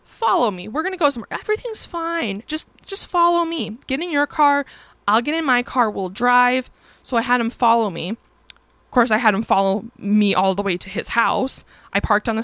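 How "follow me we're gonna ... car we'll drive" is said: mock soothing coaxing. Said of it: "So I'm like".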